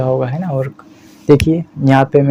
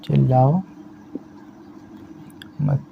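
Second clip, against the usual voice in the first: slow dictation; 9 dB quieter than usual. Shown as a demonstration. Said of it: "इस मत के लिए".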